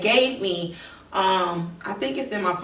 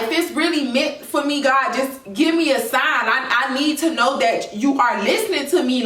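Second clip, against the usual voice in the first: higher-pitched retold plea to God; pleading; 4 semitones higher than usual. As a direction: beg earnestly for a sign.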